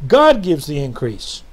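"God gives the increase" slowly, with a strong punch on "God"; emphatic statement. Real, not acted. Preacher driving home his revival message, slow and emphatic. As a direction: hit "God" hard, then draw out "gives the increase". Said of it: "just the emphasis on that sentence".

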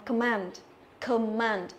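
"command" with weak first vowel, stressed MAND; careful demo of "command"; schwa first syllable. Shown as a demonstration. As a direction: model "command", falling on the second syllable. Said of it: "âm đầu tiên này thì cũng là âm ơ".

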